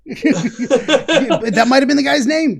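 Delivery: slow, laughing. Real, not acted. Host cracking up at the Swansea joke.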